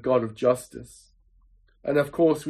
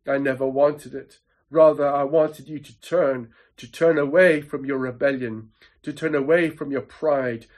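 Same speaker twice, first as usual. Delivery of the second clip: understated anguish of a grieving father; sobbing father, acted. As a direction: plead sorrowfully with a lost son, no real sobs. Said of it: "the father's heart breaks and he sobs".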